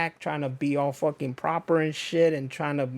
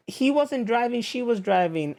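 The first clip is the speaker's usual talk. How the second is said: high, pushy mock protest; higher-pitched imitation of the other woman cutting in; 8 semitones higher than usual. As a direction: ham up her insisting. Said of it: "was like".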